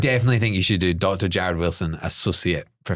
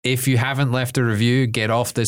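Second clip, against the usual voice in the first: mock podcast intro; 2 semitones higher than usual. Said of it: "Let's hear it".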